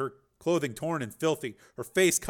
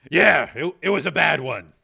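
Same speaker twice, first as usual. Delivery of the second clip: shaken; 3 semitones higher, 10 dB louder than usual. Acted. Shaken after nightmare.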